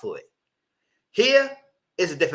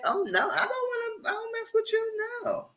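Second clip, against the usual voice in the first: mock disgust; 5 dB quieter than usual. Mock recoiling from hickey.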